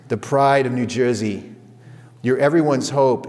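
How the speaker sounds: lightly imitated New York accent; a wife's pep talk with a touch of New York. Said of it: "New York accent".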